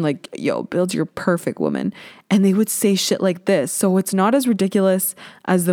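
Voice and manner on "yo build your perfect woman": lower, softer dude-bro impression; lazy guy asking his friends; mock bro voice. College guys in class, mimicked in a lower, softer bro voice. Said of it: "they would ask themselves this question".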